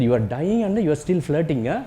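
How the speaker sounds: lightly imitated Malayali accent; a hint of a Kerala nurse's Malayali accent. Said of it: "you know this Malayali accent".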